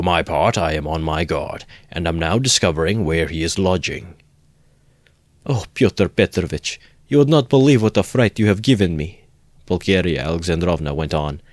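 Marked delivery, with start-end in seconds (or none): 5.4-9.2 higher and louder, anxious and rushed; a worried mother pouring out her fear; mother tells Pyotr Petrovitch her fright, anxious; frightened. Acted.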